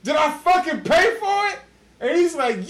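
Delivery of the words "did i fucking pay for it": high, challenging comeback; raised-pitch mock confrontation; retold argument. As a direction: throw the question back indignantly. Acted sandwich argument.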